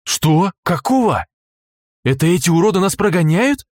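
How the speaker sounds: loud, high indignant voice; outraged disbelief. Acted. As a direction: spit out the outrage. Вик outraged at being chased.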